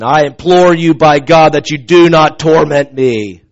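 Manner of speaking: lightly acted demon; pleading demon. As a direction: implore forcefully, out of the hushed narration. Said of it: "this is the one speaking".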